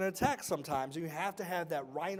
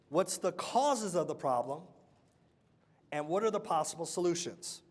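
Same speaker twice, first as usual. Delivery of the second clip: slow dictation. Shown as a demonstration. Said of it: "Everybody write this down".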